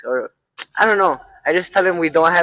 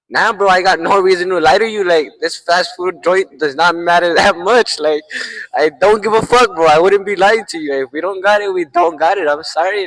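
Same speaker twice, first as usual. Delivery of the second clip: retold protest, louder and emphatic; emphatic insistence; 4 dB louder than usual. Cashier swears to a doubting customer he isn't lying, emphatic retold insistence.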